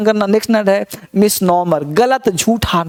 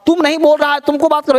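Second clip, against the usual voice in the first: teasing scold; 7 semitones higher, faster than usual. Real, not acted. Teacher scolds silent students.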